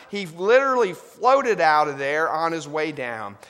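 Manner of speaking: full-voiced, loud proclamation; loud proclaim. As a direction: throw it out to the whole hall.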